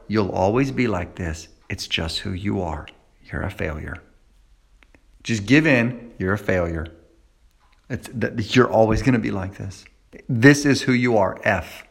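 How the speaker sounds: voice of the lie. Acted. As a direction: drop it to a cold murmur. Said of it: "here's what you hear".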